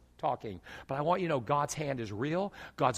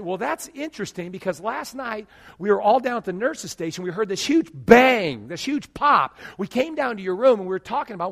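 excited nurse; 5 semitones higher, 7 dB louder than usual. Retold or imitated. Nurse to patient about the bang, loud and amazed. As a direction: tell it like the strangest night shift ever. Nurse's story retold loudly.

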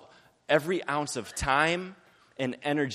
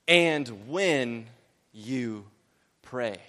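slow emphatic reading; 3 semitones lower, much slower than usual. Shown as a demonstration. Preacher reading the verse slowly to the congregation. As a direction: read each word slowly and deliberately. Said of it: "Jesus is trying to get some point across".

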